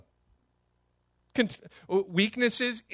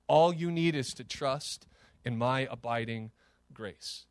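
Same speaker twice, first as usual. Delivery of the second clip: tender; 4 semitones lower than usual. Acted. God speaking tenderly to listener.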